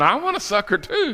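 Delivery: put-on high-pitched childlike begging; mock pleading adult. Missionary imitates adults wanting candy, high eager plea.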